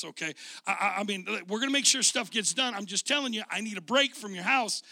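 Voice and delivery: venting to your daughter that you've had enough; exasperated dad. Retold or imitated. Dad telling daughter he's fed up.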